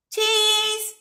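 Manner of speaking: put-on very high, held little-kid cheese; toddler saying cheese. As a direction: imitate a small child posing for a photo. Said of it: "when you teach a toddler to say cheese".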